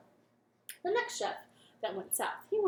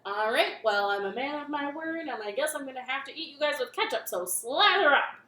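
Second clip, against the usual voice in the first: grumpy king; 7 dB louder than usual. Acted. King voiced.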